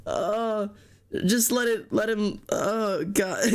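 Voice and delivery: still laughing. Real, not acted. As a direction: let the giggles leak through. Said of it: "I'm crying".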